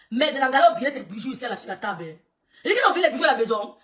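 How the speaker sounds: loud laughing retelling. Real, not acted. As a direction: laugh through the words. Laughing at forgotten jewels.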